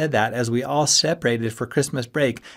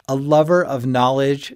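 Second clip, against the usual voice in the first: higher, louder scornful echo; scoffing; 4 semitones higher, 7 dB louder than usual. A narrator's reading. Friend mocking another's claim to philosophy, scoffing. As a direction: scoff at the grand phrase. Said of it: "Ski scoffed".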